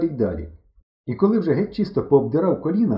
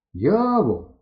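higher, more insistent call; louder call; 6 semitones higher, 3 dB louder than usual. A narrator's reading. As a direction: call a bit louder, pitch raised. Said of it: "кричу я голосніше". (гукає голосніше)

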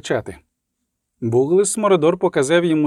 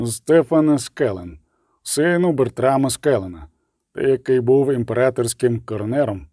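solemn judge reading sentence. Acted. Tribunal head to the condemned Skellen, solemn and formal. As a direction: pronounce the sentence gravely.

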